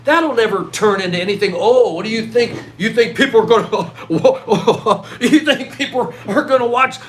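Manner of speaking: scoffing, laughing ridicule; mock scornful laugh; mocking doubters. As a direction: laugh at the idea like an old skeptic. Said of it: "talk down to everybody that didn't get YouTube".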